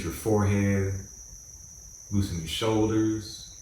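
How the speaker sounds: calm, measured meditation guide with long pauses; guided meditation. Acted. Host guiding listeners to close their eyes and relax, guided meditation. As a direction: ease them into relaxing, phrase by phrase.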